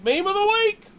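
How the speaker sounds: loud, high segment announcement; announcer voice. Acted. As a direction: call it out like a show host.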